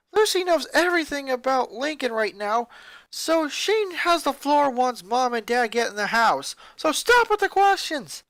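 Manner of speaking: loud, high, firm orders; commanding. Acted. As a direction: take charge of the noisy family. Silencing sisters, taking charge.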